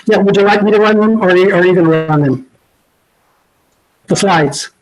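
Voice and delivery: muffled, as if through a hand. Real, not acted. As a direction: speak through a covered mouth. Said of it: "Sorry, you're a bit muffled".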